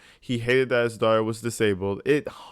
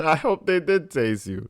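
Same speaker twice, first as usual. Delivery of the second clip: laughing while talking; 5 semitones higher than usual. Real, not acted. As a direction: say it through a laugh. Laughing at defendant's claim.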